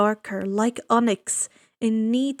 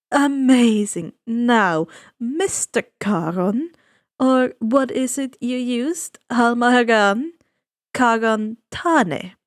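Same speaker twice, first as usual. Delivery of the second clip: suave ferryman; 4 dB louder than usual. Acted. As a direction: savor each word like a sly host. Charon speaking.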